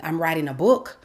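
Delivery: "book" rising as if half asking; tentative answer. Retold or imitated. She admits her project to mentor, tentative. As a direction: offer it unsurely, lifting on BOOK.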